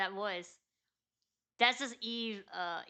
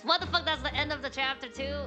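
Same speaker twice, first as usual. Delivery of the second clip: surprised; 5 semitones higher, 3 dB louder than usual. Real, not acted. Chapter suddenly ends.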